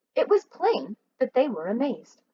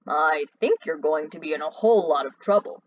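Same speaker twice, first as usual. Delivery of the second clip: lower, slow puzzled voice; a lower, unhurried warning; 6 semitones lower than usual. Acted. Mac warns the hijackers, lower and slow. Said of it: "Mac asked slowly".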